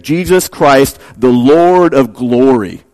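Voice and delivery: "glory" drawn out slowly; stress on glory. Shown as a demonstration. Preacher showing the original emphasis, slow weight on "glory". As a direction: lean on the word "glory", stretching it. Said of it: "puts all its emphasis on the word glory".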